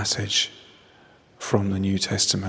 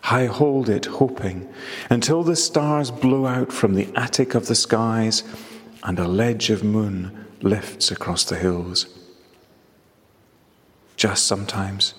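poem reading. Acted. Reads his poem aloud.

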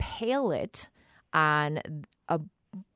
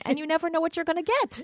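excited; 12 semitones higher, 5 dB louder, faster than usual. Real, not acted. Gushing about feeder surprises.

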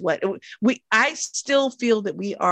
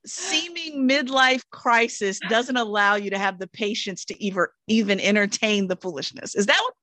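calm, measured coach reflecting back; 4 semitones higher than usual. Pretend. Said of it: "I'm using my coaching voice now".

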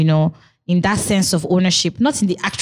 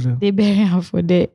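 laughing. Real, not acted. Joking, laughter heard.

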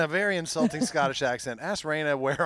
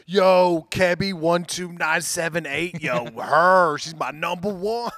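hammed-up, loud hype over a crush; lightly mock an excited celebrity fan; social media fan; 5 dB louder, slower than usual. Host mimicking fans on Instagram and TikTok, hammed-up hype. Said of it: "people be like".

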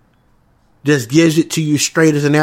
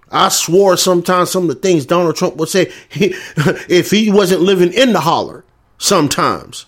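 chuckling through the words about Trump; laughter breaking into the line; laughing while talking; 3 semitones higher than usual. Real, not acted. Vlogger laughing as he tells viewers about Trump.

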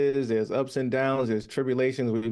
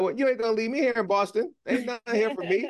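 playful retold protest; 9 semitones higher than usual. Retold reply to girlfriend.

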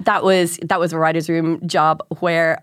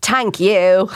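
put-on Dublin accent; 3 dB louder than usual. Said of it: "such a Dublin accent".

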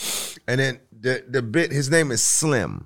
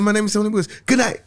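mock formal introduction; 9 semitones higher, much faster than usual. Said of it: "I said".

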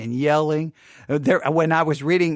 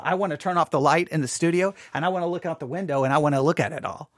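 ordinary talk, nothing marked

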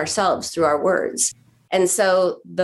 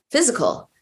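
physical said higher, as a definition; stressed physical; 6 semitones higher than usual. Shown as a demonstration. Therapist defining hunger, stressing physical. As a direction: lean on the word physical. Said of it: "So physical hunger is".

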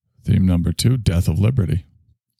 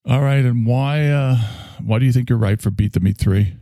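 casting director; 6 semitones higher than usual. Pretend. Casting director asks question.

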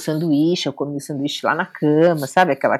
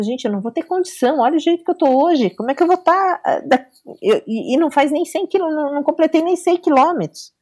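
higher, pleading exhausted complaint; despairing; 8 semitones higher than usual. Retold or imitated. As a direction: wail about not making it. Desabafo de exaustão. (desabafo desesperado, voz mais aguda)

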